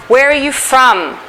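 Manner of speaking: teacher's model question, falling on "from"; falling question intonation. Shown as a demonstration. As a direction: ask it with the voice dropping on "from". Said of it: "Does my voice go up or down?".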